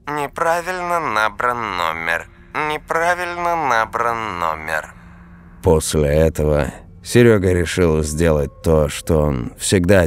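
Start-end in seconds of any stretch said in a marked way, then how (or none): 0.1-4.9 flat automated phone message, softer; robotic answering-machine voice; monotone recorded voice. Acted. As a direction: read it like an operator recording.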